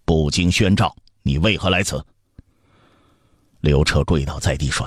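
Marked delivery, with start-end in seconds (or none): 0.0-2.1 restrained scolding from a displeased father; stern rebuke. Acted. Emperor rebukes his uninvited son, sternly. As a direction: rebuke him without raising the voice. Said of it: "斥道".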